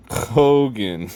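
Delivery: "Hogan" said with a K at the start, as "Kogan"; misread name. Shown as a demonstration. Showing how the lettering misleads, "Hogan" said as "Kogan". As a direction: hit a hard K to start "Hogan". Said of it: "makes it look like".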